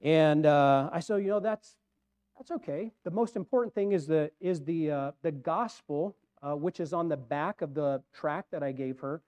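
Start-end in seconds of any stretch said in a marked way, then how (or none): 1.2-9.2 softly retold gentle reassurance; mildly compassionate, easing off in volume; nice, polite. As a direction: say it kindly and politely, letting the voice soften. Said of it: "I said it nicely, politely".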